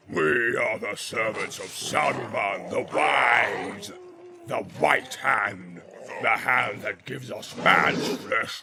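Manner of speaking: loud, slow, shouted orc boast; Uglúk roaring his boast; orc war boast. Acted. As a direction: roar it like a proud war chief.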